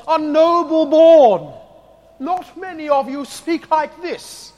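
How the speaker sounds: slow, drawn-out posh English noble accent; mock noble accent. Shown as a demonstration. Preacher mocking Corinthian nobility in a put-on noble accent. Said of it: "That's my attempt at a noble accent".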